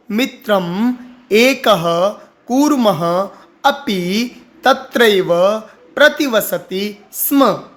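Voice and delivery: slow, word-by-word Sanskrit reading; word by word recitation. Shown as a demonstration. Teacher reads word by word for students to repeat. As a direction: pause after every word. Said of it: "एक एक शब्द करके बताया".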